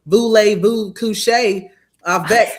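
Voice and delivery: slow, hammy bad French accent; mock a clumsy French accent. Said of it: "and sound crazy".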